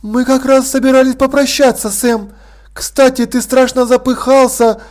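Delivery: a gracious hostess, gently amused; poised lady Sibyl. Acted. Sibyl to Vimes and guests.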